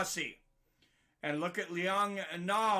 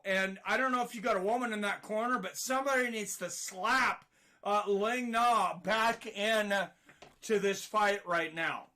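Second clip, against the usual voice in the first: breathless after the shouting; winded, catching his breath. Real, not acted. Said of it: "I'm almost out of breath".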